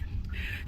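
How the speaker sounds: soft, breathy little laugh; brief quiet chuckle to yourself; short laugh. Real, not acted. Speaker brushing off an awkward aside, short laugh.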